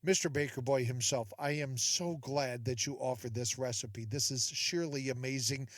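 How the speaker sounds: commenter. Pretend. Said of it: "You'll be making the comments".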